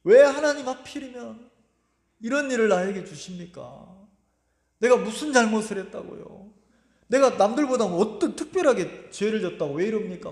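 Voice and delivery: mild re-enacted complaint to God; 원망하는 기도. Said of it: "내가 원망하고 있는 거예요". (원망 섞인 항의조로 재연)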